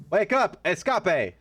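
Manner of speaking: mock alarm call. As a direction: shout him awake, half joking. Yelling at a sleeping game character.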